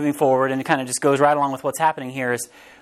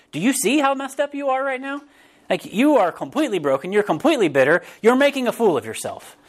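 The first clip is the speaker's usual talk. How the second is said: acted scolding, pitched up at the start; blunt reproach; 6 semitones higher than usual. Preacher acting out counseling this guy, bluntly reproachful. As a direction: confront him like a too-frank counselor.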